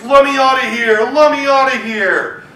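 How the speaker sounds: bellowing, loud shout; loud roar. Acted. Trapped lion roars for help, loud bellowing shout. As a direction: roar it at full voice. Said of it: "he roared in his loudest voice".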